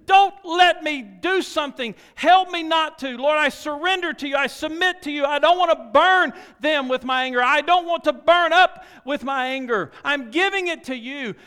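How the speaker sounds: high, loud, stammering plea for help; pleading prayer. Pretend. Preacher voicing a repentant prayer, pleading loud. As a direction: beg God earnestly, voice climbing. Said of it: "And then you say".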